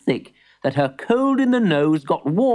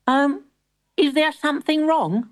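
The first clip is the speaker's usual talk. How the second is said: put-on boy voice; 13 semitones higher than usual. Boy worried.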